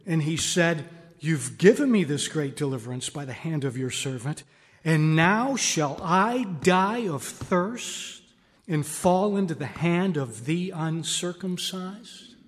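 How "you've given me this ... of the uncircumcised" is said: demanding cry to God. Acted. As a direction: cry out to the Lord, drawing out the demand. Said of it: "the tone and the voice of Samson here is demanding".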